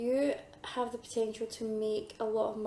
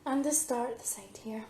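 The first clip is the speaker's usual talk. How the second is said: losing her voice, hoarse and strained. Real, not acted. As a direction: voice going hoarse. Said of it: "keep losing my voice".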